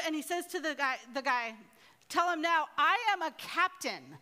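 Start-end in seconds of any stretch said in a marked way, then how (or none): 2.1-4.2 mildly indignant captain, emphatic; lightly acted irritated command; a little angry. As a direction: pull rank with a touch of anger. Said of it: "he got a little angry".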